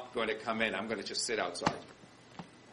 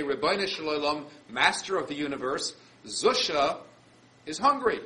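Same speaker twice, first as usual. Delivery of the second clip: raised, pleading cry upward; calling out to God; 3 semitones higher, 5 dB louder than usual. Retold or imitated.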